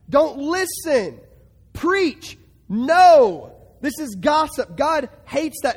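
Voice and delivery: slow commands rising to a loud "No"; forceful preaching. Acted. Preacher urging believers to reject gossip, loud and forceful. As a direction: build to a shouted refusal.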